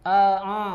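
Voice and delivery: loud "A, a" pushed through the nose; nasal hamzah. Shown as a demonstration. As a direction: show the wrong nasal hamzah. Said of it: "hamzah yang dihidungkan".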